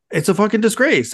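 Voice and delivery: sharp angry jump up in pitch and volume; furious. Real, not acted. Host raging at the committee on the podcast, furious. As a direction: spit the words out in real fury. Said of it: "I'm still furious".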